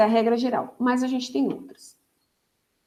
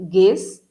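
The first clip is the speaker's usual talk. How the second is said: guês set apart and punched louder; stressed syllable alone; 2 semitones lower, 5 dB louder than usual. Shown as a demonstration. Teacher naming the tonic syllable, guês said loud and apart. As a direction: hit guês firmly by itself. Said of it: "a sílaba tônica está no".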